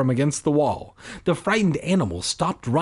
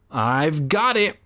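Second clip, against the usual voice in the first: mock shriek; 2 semitones higher, slower than usual. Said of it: "I shrieked".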